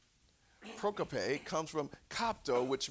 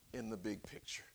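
whisper; 5 semitones lower, 11 dB quieter, faster than usual. Acted. Soft aside in sermon.

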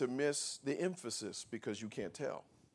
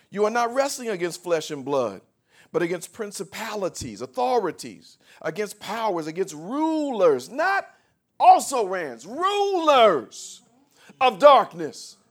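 scripture proclaimed louder and higher as it goes; preaching building to full force; 8 semitones higher, 11 dB louder than usual. Real, not acted. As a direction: build from firm declaration to a pulpit shout.

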